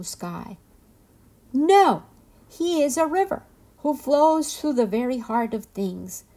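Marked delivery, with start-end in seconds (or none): 1.5-6.2 loud, raised, booming objection; a high, loud storybook proclamation; thundering waterfall. A narrator's reading. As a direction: thunder it out with full force. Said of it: "thundered the waterfall".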